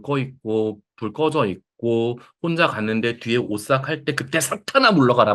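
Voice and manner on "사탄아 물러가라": mock rebuke. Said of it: "막 이렇게 해야 돼요?".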